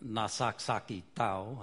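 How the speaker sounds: spoken in a Papua New Guinea language; foreign greeting. Shown as a demonstration. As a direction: say the greeting "Nasaksaki Tau" in its native sounds. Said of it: "I throw things out like".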